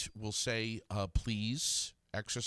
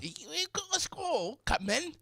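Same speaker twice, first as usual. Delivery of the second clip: high, slow, hammed-up drama; theatrical voice; slower than usual. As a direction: stretch it out grandly. Echoing the mock squall voice.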